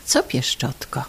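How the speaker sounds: husband answering his wife meekly, soft and low; meek reply. Acted. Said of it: "odpowiada potulnie".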